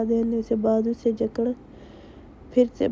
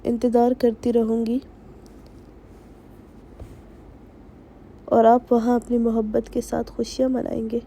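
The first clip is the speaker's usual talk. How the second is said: sharp angry tone. A narrator's reading. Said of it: "تیز لہجے میں کہا".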